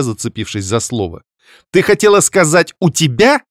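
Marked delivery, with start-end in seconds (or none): 1.7-3.4 pointed sister reply; high, loud retort. Acted. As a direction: correct her pointedly. (резко, высоко)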